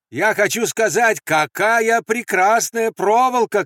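high, loud, drawn-out praise; shout. Acted. Andres placating the guards about their wire, shouting. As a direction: cry out exaggerated admiration. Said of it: "крикнул Андрес".

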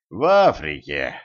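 mild snappish reply; weakly snapping. A narrator's reading. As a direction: throw back a tired, irritable comeback. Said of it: "слабо огрызнулся Кощей".

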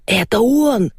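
a mild squeal of recognition. Acted. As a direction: yelp it out in excitement. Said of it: "взвизгнул Вайнштейн".

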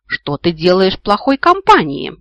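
громко и возмущённо отчитай; визгливая бабушка-моралистка; визгливый женский голос. A narrator's reading. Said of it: "раздался визгливый женский голос". (громкий негодующий выговор)

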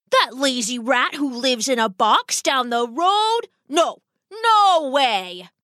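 a mild splutter of outrage. Acted. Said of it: "Mister Rat spluttered".

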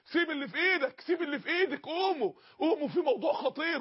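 high, urgent call to get up; urgent alarm. Retold or imitated. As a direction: rouse people in a panic. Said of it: "الناس تقف تصرخ كده".

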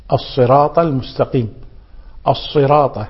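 الصراط with heavy s and t; sad and ta. Shown as a demonstration. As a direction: model both emphatic consonants in الصراط. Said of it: "بالصاد ثم بالطاء".

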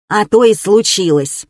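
spitting out while speaking. Acted. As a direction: talk while spitting something out. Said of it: "отплёвываясь".

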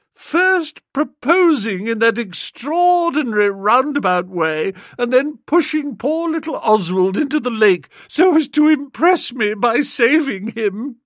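put-on girl scolding Bertie by the lake; high, loud young lady. A narrator's reading. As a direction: chide him fondly, pitched high. Honoria voiced.

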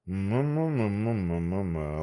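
smiling hum. Acted. The manager hums, smiling.

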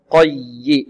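slow "قي" pressing on the doubled ي; stressed doubled ي. Shown as a demonstration. Teacher shows the doubled letter, stressed ي in "قي". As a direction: lean on the ي in "قي". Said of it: "والياء هنا مشددة، نبر".

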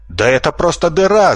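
high startled shout. A narrator's reading. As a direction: call out in disbelief. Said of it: "закричал поднявшийся за ним Бобрина". (удивлённый выкрик)

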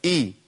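"إي." as a glottal onset into an i vowel; crisp hamza gliding into "إي."; hamza with kasra. Shown as a demonstration. Teacher demonstrating the kasra hamza, "إي." with a clear i. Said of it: "الهمزة المتحركة بكسر؟".

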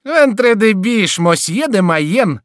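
high, loud and slow with glee; thrilled exclamation; delighted. A narrator's reading. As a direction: gloat with joy. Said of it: "проговорил Шико с восторгом".

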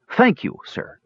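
high-pitched grateful call. A narrator's reading. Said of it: "he called to the stranger".

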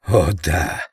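a light hiss mixed with a half-whisper; lightly hissed gloating half-whisper. A narrator's reading. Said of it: "наполовину прошипел, наполовину прошептал он".

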